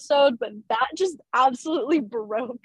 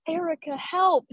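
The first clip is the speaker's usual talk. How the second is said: quoting Lucas; 6 semitones higher than usual. Retold or imitated. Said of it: "that was improvised".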